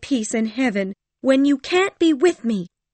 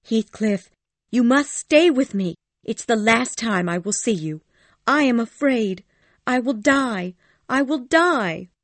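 high, loud, desperate begging; dying woman begging her lover to stay; fearful pleading; 13 semitones higher, 7 dB louder than usual. Acted. Terrified Cathy begs him to stay.

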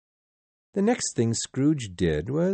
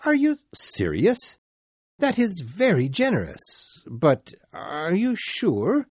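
much higher, stunned disbelief, slowing at the end; astonished; 8 semitones higher, 3 dB louder than usual. Acted. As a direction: cannot believe the gift. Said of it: "he cried".

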